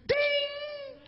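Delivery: long high ringing ding; high held ding; high bell ding. Pretend. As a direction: ring out a scoring bell. Scoring bell sound effect.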